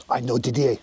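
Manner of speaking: put-on French accent. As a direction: speak like a comic Frenchman. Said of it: "French accent".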